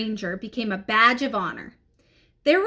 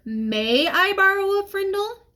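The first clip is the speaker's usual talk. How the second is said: prim proper ask; 8 semitones higher than usual. Acted. Dave correcting with prim grammar.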